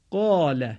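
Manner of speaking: heavy long آ in قال, Arabic style; thick Arabic آ after the ق in قال. Shown as a demonstration. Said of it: "البته مقداری درشتر از آی فارسی میباشد".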